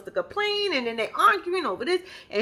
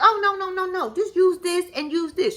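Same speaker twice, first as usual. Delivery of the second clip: mock girlfriend; 8 semitones higher than usual. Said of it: "She was like".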